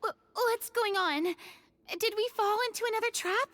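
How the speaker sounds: sudden high alarmed questions; startled. Acted. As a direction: react as if jolted awake in a trap. Waking in the dark, alarmed.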